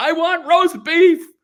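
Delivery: full-throated stage scream, very high, very loud, drawn-out. Retelling the moment onstage when the line gets screamed: imitating a scream. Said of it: "that's the moment that I scream it".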